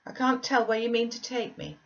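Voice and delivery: put-on high, fretful child's voice; a sickly boy pleading to stay; anxious young boy. A narrator's reading.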